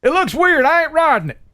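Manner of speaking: high, slow put-on Southern redneck drawl. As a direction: ham up a hick Southern accent, pitched high. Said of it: "you have rednecks in North Dakota?".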